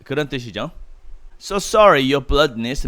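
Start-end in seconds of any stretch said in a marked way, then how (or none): 1.4-2.9 butter him up with oily politeness; greasy flattery. Acted. Peeves grovelling to the Baron, oily and fawning. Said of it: "he said grizzly".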